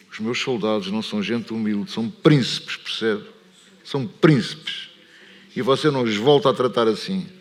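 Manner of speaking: firmly rebuke, with a hard push on "príncipes"; retold indignation. Officer defending his soldiers to the presenter, retold indignation. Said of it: "E eu fiquei furioso".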